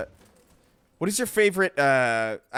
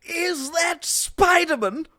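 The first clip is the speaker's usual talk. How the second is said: high, slow stuffy gent; posh British voice; 10 semitones higher, much slower than usual. Pretend. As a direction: ask it like a pompous Brit. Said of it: "in that voice".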